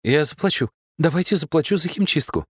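высоко, спеша загладить вину; суетливо предлагает заплатить. Acted. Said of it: "суетилась девушка". (девушка суетится перед Владом, высоко и торопливо)

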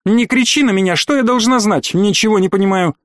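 high, offended outburst; shouting match. Acted.

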